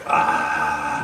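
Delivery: long, drawn-out blissful sigh of "ah"; marvelling, sustained "ah"; awestruck "ah". Retold or imitated. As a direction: let out a heavenly "ahh" of wonder. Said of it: "I was in heaven".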